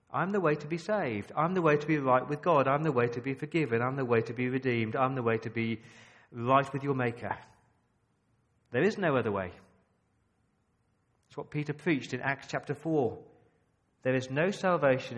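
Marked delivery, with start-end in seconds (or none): 0.1-9.5 strong, ringing sermon repetition; full-force preaching. Acted. Preacher hammering the one way to the congregation, full force. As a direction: drive each line home from the pulpit.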